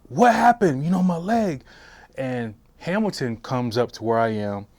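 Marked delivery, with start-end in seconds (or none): 0.1-1.6 high loud panicked shout; frantic cry after being shot; screaming. Retold or imitated. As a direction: yell out in shock and pain. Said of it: "I'm screaming, I'm cussing".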